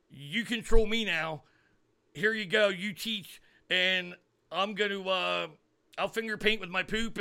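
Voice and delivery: hammed-up teacher giving up control; mock teacher voice. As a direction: play a teacher handing the class over, mocking. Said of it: "that's what it reminds me of".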